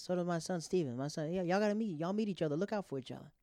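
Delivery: put-on a dad urging the boys to meet; friend's dad. A father telling two college boys to look out, eager. Dad voiced in retold meeting.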